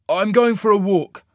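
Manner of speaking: coolly. A narrator's reading. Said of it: "he stated coolly".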